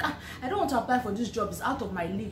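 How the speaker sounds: half-laughing, half-hearted protest; laughing reluctance. Retold or imitated. Reluctant student laughing to her roommate, half-hearted protest. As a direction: say it through a light laugh. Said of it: "I was even like".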